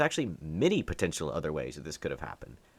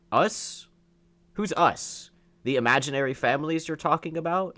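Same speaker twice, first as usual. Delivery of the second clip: higher and louder, incredulous rant; outraged; 6 semitones higher, 3 dB louder than usual. Real, not acted. Ranting at a Democrat, higher and louder in outrage. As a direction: fire back in disbelief.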